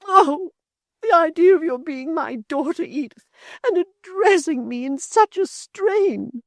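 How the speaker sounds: put-on high, whining old mother. A narrator's reading. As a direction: whine and complain, wounded. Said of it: "she whined".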